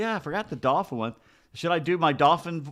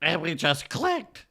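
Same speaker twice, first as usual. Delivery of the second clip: dolphin dad voice; much slower than usual. Pretend. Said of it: "I'll be the dad".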